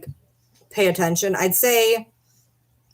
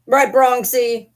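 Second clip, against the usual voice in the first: pet talk; 7 semitones higher, 7 dB louder, much slower than usual. Real, not acted. Talking baby-talk to pet dog.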